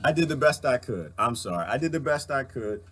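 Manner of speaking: a parent shaken and holding back tears; emotional, upset. Real, not acted. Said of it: "I'm a little emotional right now".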